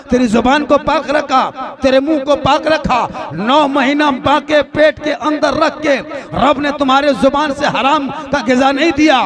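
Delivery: impassioned preaching. Real, not acted. Preacher reminding worshippers what God did in the womb, impassioned. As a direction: preach with mounting force.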